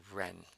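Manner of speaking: ren with the R held long through near-closed lips; ren, R stretched with lips almost touching; dragged-out R. Shown as a demonstration. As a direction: drag out the R of ren. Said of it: "pause on the R and drag out its pronunciation".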